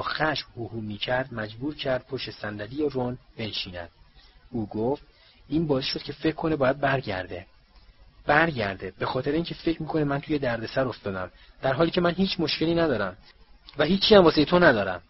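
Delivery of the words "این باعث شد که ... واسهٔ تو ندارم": starts tense, ends higher and much louder; a hint of a temper rising to a snap; growing anger. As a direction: let the frustration build to an outburst. Boy fumes, banging fist.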